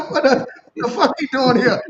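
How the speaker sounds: loud and laughing, voice climbing; laughing disbelief. Retold or imitated. Waking after surgery, laughing at the chaplain. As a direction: blurt it out through laughter.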